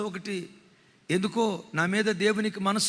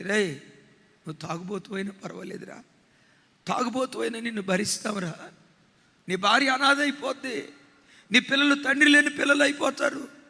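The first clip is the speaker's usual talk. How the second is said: urgent plea; 2 semitones higher, 3 dB louder than usual. Retold or imitated. Father pleading with his son at the noose, building to loud. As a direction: beg him to stop, building.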